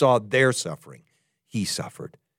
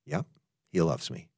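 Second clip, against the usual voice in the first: quiet affirmation; 6 semitones lower, 10 dB quieter than usual. Shown as a demonstration. Models the listener's private response.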